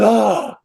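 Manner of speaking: imitated groan of pleasure; mock climax groan. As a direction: let out a put-on cry of release. Adam's second climax, imitated.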